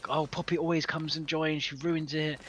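a hint of a sulky child; mimicking bratty niece. Retelling niece's tantrum over a game, mild whiny child voice. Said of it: "Ella was like".

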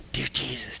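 very soft, hushed little prayer; secret silent prayer. Shown as a demonstration. Demonstrating a prayer nobody else should see, hushed. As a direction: barely voice it, keep it private. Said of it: "silently by yourself. It's a secret".

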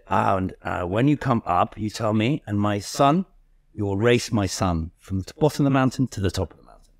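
lightly done German coach; a light put-on German accent; imitated German accent. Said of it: "I'm not gonna do the accent".

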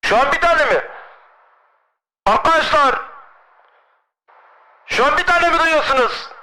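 very high pitched filtered voice; voice changer. Pretend. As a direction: chipmunk voice through a changer. Voice changer test with friends. (ses değiştirici ile ince ses)

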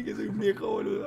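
ordinary talk

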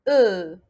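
"E" as a loud, low, falling "euh"; correct French E. Shown as a demonstration. Teacher correcting learners, "E" as a firm falling "euh". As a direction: punch "E" as the right euh, not O. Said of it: "نعرف bien كيفاش ننطقو".

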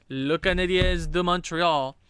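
mock French-accented team name; bad French accent. Noting a loss against Montreal, in a mock French accent. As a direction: put on a badly faked French accent. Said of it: "no idea how to do a French accent".

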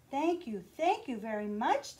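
lightly bubbly, eager thanks; little fish happily thanking the Rainbow Fish; playful thanks. Acted. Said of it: "bubbled playfully".

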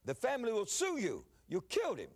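retold outraged accusation, falling hard on KILLED; mock-alarmed accusation; doctor's accusation. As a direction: imitate an appalled doctor accusing, pitch jumping up. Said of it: "he looked up and said".

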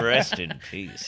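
slow, sultry, laughing. Shown as a demonstration. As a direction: purr it slowly. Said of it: "I'm a little bit sultry there".

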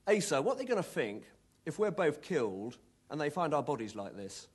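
put-on light Cockney accent, joking; cheeky Cockney quip, lightly voiced. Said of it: "in his irrepressible Cockney accent".

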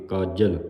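ਕਾਜਲ with the j held tight and doubled by adhak. Shown as a demonstration. Teacher showing the sangat a tight ਕਾਜਲ with adhak. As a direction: press hard on the j of ਕਾਜਲ. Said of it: "ਕੱਸ ਕੇ ਬੋਲਣਾ, ਅਦਕ ਲਾ ਕੇ".

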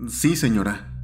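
ordinary delivery, nothing marked

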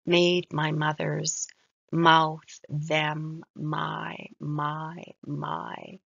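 slow, separated words, pressing the M of "mouth"; stressed M sounds. Shown as a demonstration. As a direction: lean on each M in "Made my mother's mouth". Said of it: "she has so many M's".

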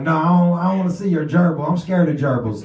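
scared refusal. Retold or imitated. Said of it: "Jinx is like".

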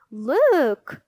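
loud, drawn-out cry to a crowd; shout. A narrator's reading. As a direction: shout it out for everyone to hear. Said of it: "someone shouted".

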